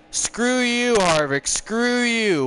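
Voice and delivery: loud, high furious yell at a rival driver; angry yell. Real, not acted. Gamer yelling at rival driver Harvick during race, furious. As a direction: snap it out, really fed up.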